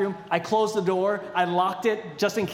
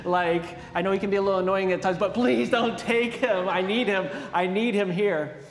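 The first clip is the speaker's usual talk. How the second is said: begging; 2 semitones higher than usual. Retold or imitated. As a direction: beg him not to take your brother, half mock-desperate. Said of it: "And I begged him".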